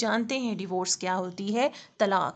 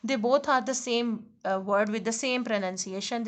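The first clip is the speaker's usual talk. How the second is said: slow explanation; much slower than usual. Shown as a demonstration. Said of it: "teacher explaining".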